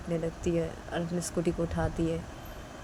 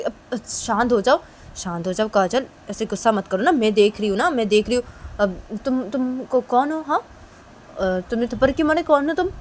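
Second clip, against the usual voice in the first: loud, higher attempt to calm her; 5 semitones higher, 7 dB louder than usual. Principal tries to calm Kajal, loud and a bit high. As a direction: raise your voice to settle her down. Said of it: "वो principal बोलती".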